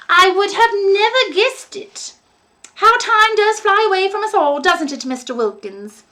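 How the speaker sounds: put-on high, sugary old lady voice, softening at the end; a doting landlady, gushing then hushed; sweet old landlady. A narrator's reading. Landlady fawning over young Billy, sweet high voice.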